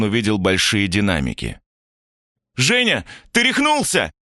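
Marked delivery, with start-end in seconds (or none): 2.5-4.1 much higher, panicked cry; terrified cry. A narrator's reading. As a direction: shriek it in horror. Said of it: "закричали студенты в ужасе".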